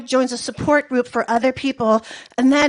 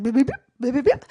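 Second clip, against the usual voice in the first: tiny beeping voice; faster than usual. Pretend. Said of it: "pathetic balls being like".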